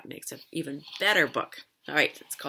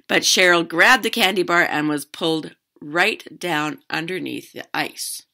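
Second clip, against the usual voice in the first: lively read-aloud, louder than chat; story narration; 13 dB louder than usual. A narrator's reading. Teacher reading a fishing story to children, animated narration. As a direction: read a picture book out to children.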